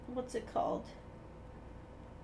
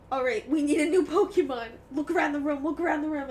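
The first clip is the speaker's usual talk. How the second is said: louder, lightly acted team pep talk; rally the room, half-joking; lightly voiced designer giving orders; mock brainstorming boss; 6 dB louder than usual.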